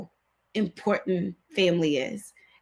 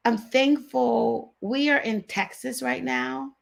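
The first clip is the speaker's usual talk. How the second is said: slow, higher, voice welling up with feeling; getting emotional; 5 semitones higher, slower than usual. Real, not acted. Host thanking viewers for a family visit, getting emotional. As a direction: let the emotion catch you as you speak. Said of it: "I'm getting a little emotional".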